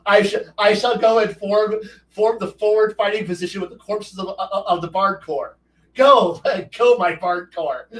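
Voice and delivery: rally the corpse troops like a pompous commander; mock heroic command.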